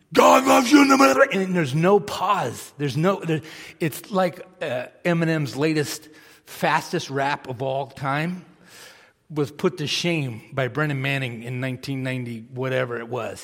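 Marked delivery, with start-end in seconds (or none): 0.2-1.3 preacher-style yell, much louder, higher, faster. Describing a sermon's peak moment, imitating Brennan Manning bellowing. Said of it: "he's yelling from the diaphragm".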